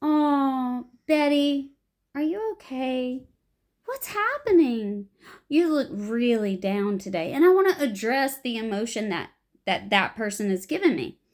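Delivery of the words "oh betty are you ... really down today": concerned check-in. Shown as a demonstration. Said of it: "ask my partner".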